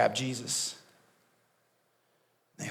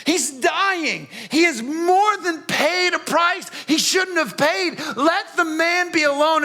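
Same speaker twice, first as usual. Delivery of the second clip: higher, pleading outcry at the crowd; exasperated shout; 5 semitones higher, slower than usual. Acted. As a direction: cry out against the mob in dismay.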